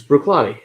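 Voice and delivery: Bruichladdich said the casual Texan way; Texan take on the name Bruichladdich; own Texan pronunciation. Real, not acted. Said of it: "That's how I say it".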